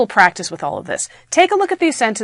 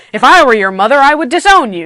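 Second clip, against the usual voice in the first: emphatic, raised voice on a higher final phrase; very loud; 4 semitones higher, 6 dB louder than usual. Shown as a demonstration. Teacher showing an emphatic exclamation, very loud. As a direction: declare it loudly, with force. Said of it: "You could be very loud about it".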